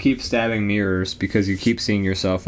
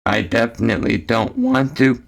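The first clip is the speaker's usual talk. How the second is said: robot voice. Pretend. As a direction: drone it like a computer. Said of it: "the robot voice replaces the stuff before".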